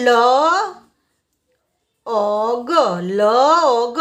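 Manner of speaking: "લ અ ગ" twice, in separated sounds; "લ અ ગ" sound by sound for learners. Shown as a demonstration. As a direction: hold લ, then isolate અ and ગ. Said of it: "એલનું ઉચ્ચારણ થશે લ".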